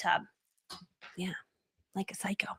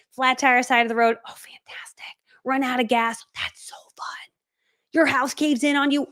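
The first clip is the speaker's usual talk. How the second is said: sarcastic whisper; 3 semitones higher than usual. Pretend. Sarcastic bad-day examples.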